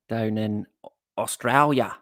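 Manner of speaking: lightly done Aussie accent. Shown as a demonstration. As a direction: say Australia with a mild Aussie twang. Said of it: "That's my Aussie accent".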